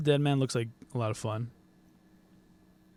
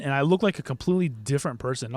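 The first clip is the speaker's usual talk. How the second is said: ordinary talk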